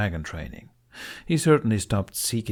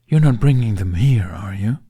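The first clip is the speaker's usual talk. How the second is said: alarmed dragon; 2 semitones higher, 9 dB louder than usual. A narrator's reading. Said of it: "Toothless reacted with alarm".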